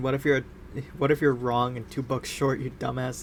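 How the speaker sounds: usual speaking voice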